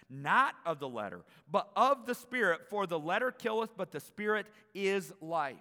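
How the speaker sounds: building from loud to a ringing shout; preaching at full force. Acted. Scripture building to a preached climax.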